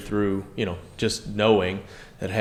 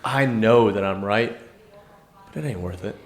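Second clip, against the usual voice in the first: measured inner reasoning. Retold or imitated. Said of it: "I'm like".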